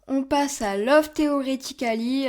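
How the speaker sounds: slow title read with a light English accent. Shown as a demonstration. Booktuber announcing the next English book, slow light English accent. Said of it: "avec mon accent bien".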